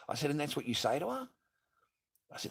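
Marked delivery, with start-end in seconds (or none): 0.3-1.3 high, outraged question; indignant question. Retold or imitated. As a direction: challenge her, disbelieving. Retelling yelling at ex.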